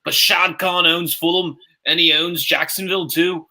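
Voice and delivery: rough mock Cockney accent; wandering British accent. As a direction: attempt British and drift between regional accents. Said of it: "You sounded Cockney".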